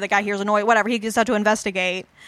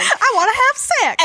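mock boyfriend voice; 13 semitones higher, 4 dB louder, slower than usual. Mocking the boyfriend's real motive.

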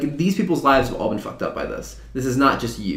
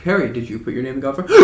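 mock Dumbledore yelling; faster than usual. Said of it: "he just screams a lot".

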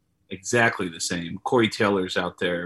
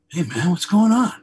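higher, cheery imitation of a friend; super upbeat; 8 semitones higher, 4 dB louder than usual. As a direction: bounce it like a happy buddy answering the phone. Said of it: "he's, like, super upbeat".

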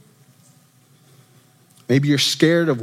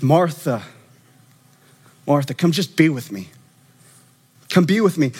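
gentle Jesus; 3 semitones lower than usual. Retold or imitated. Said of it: "He says".

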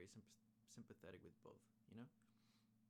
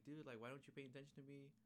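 raised pitch, imitating a needy complaint; mock whiny demand; 5 semitones higher than usual. Demon girl wants Uzui's attention, mock complaint.

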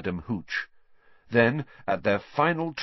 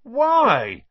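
loud, high cry of disbelief; drawn-out, high-pitched shout; chorused outcry; 9 dB louder than usual. A narrator's reading. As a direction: call it out like a whole team protesting. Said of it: "chorused the rest of the team".

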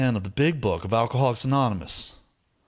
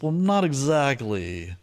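retold hesitant hedging; 5 semitones higher, slower than usual. Retelling his reluctant answer.

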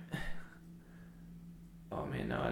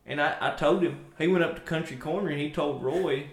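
put-on thick country accent; 3 dB louder than usual. Country neighbor gossiping about Seth's truck, light country accent. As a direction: ramble on like a small-town country neighbor. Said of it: "really thick country accents".

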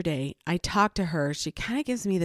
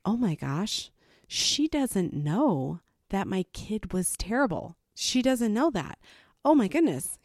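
dawning realization; 3 semitones higher than usual. Retold or imitated. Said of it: "it clicked in my head".

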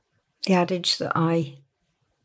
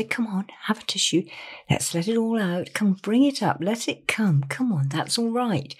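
gentle coaxing; 2 semitones higher than usual. Shown as a demonstration. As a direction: coax the tears out kindly. Voicing a comforter to someone crying.

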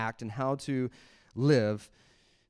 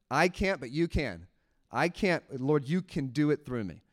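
humble prayer. Retold or imitated. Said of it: "before God and say".

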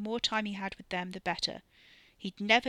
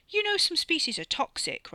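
high, loud, urgent telling-off; exasperated warning; 10 semitones higher, 6 dB louder than usual. Acted. Man warning companion off a toxic membrane, exasperated. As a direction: warn them as if they should know better. Scolding warning about danger.

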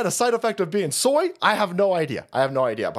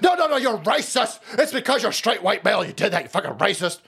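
mock outrage; 2 semitones higher than usual. Mocking accuser voice.

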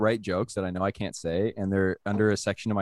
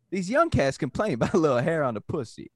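put-on higher, performed Black American accent; imitated Black American accent; 7 semitones higher than usual. Comic reads his written joke to friends, imitated Black American accent. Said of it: "you read it with a black accent".

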